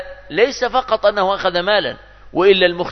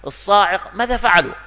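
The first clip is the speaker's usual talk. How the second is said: mock pity; 5 semitones higher than usual. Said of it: "قل".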